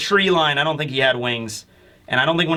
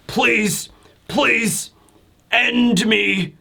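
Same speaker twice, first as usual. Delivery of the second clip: pleading, crying; 6 semitones higher, much slower than usual. Retold or imitated. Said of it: "he's, like, crying".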